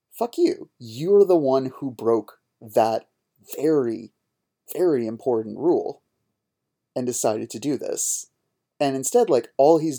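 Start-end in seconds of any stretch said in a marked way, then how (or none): 0.1-8.3 angry retort. Retold or imitated. Fed-up podcaster snapping back at the teacher, angry. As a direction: spit it back at him.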